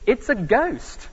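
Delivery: a touch of panic, slow and high; hammed-up scared shout of ghost; mock frightened cry. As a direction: act out the disciples' fright, lightly. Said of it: "and screamed with fear".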